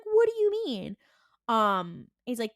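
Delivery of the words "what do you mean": high, loud baffled question; mock-baffled Dean. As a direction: ask it in a pitched-up, startled voice.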